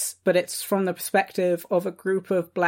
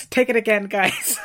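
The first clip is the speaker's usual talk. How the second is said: laughing while talking; 3 semitones higher than usual. Real, not acted. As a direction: giggle through it. Laughing at botched farewell.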